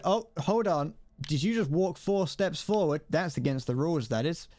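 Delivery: mock a fussy know-it-all player; uptight roleplayer. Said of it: "the people who it's like".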